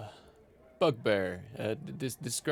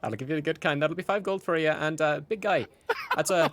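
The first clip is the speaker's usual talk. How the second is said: lightly voiced chipper innkeeper, pitched up; Gideon; 5 semitones higher, 3 dB louder than usual. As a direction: quote prices like a cheerful barkeep.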